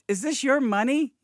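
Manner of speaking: high, bright, friendly lilt; cheerful sing-song. Retold or imitated. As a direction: ask it like good news. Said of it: "It's never like".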